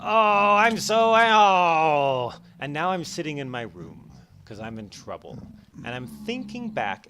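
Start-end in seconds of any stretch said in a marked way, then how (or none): 0.0-2.3 loud, high freak-out wail; going crazy. Pretend. Kid melting down after mom talks back, loud wail. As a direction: lose it completely, all in the voice. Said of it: "I go crazy".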